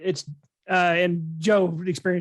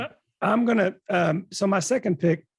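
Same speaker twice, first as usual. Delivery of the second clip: hoarse, failing voice; losing voice; 2 semitones higher than usual. Real, not acted. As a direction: talk through a voice that's going. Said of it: "I'm losing my voice".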